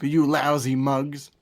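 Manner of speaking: lightly hammed-up British tough talk; mock British. Mocking Tracy's insult for Penguin's guys, mock British. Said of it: "that's the most British thing".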